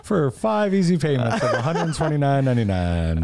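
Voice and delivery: laughing through a pitchman voice; home shopping host. Pretend. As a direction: pitch it like a TV ad, giggling. Continuing infomercial bit, laughing.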